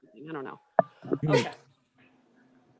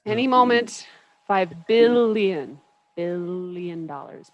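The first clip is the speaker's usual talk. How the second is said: slow, drawn-out incantation; mock summoning; 2 semitones lower, 7 dB louder, slower than usual. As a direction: stretch out BILLION as if conjuring it. Tries summoning money by saying it.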